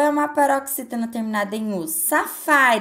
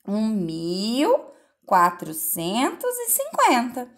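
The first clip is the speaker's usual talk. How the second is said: slow number reading; slower than usual. Shown as a demonstration. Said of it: "que número que vocês vão formar?".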